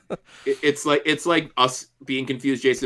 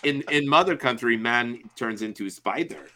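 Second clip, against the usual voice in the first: Smirnoff impression. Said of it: "switch around the verbs".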